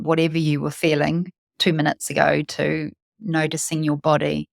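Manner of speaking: calm guided meditation with long pauses. Real, not acted. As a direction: lead listeners into their breath, unhurried.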